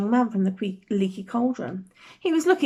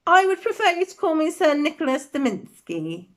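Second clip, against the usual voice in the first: stiff; 4 semitones higher than usual. Acted. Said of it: "the ghost began stiffly".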